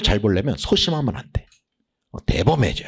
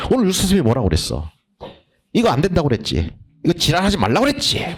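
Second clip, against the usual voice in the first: fast, lively imitation of the teacher's lecture; imitating the teacher; 5 semitones higher, faster than usual. Student copying the teacher's lecture, fast and lively. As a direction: rattle it off like the teacher. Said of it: "막 이래가면서".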